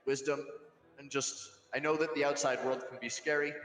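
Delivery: slow, earnest encouragement; calm a scared brother, gently; slow reassuring words to a nervous brother. Acted.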